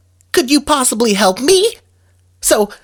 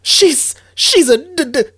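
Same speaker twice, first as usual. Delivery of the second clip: nervous stammer; 6 semitones higher than usual. Acted. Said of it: "darn nervous!".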